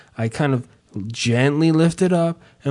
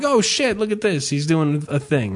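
delighted surprise; 3 dB quieter than usual. Retold or imitated. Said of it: "I'm like".

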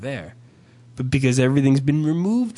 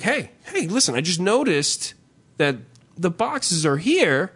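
measured calm tone; 3 semitones higher than usual. Shown as a demonstration. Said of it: "start off with this tone".

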